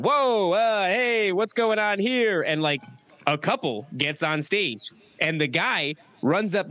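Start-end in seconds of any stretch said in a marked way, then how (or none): 0.0-2.4 higher-pitched mock alarm; Mark Normand. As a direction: imitate a comic caught off guard on stage. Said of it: "all of a sudden he starts going".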